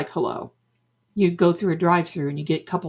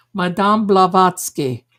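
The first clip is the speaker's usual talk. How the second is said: name pronounced grandly in a put-on accent, louder; fake Madame Blavatsky accent; 5 dB louder than usual. Shown as a demonstration. Storyteller naming the accent she borrows, in that accent. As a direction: announce it in the mystic's mock accent. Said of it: "I have that Madame Blavatsky accent".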